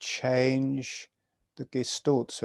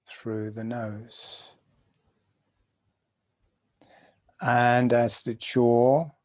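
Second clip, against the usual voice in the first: guided meditation. Acted. Teacher guiding students through jaw breathing, calm meditation voice. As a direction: talk them gently through each breath.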